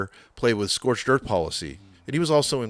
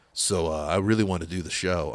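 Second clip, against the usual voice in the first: imitating deep voice; 4 semitones lower, 3 dB quieter than usual. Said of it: "it's a super deep voice".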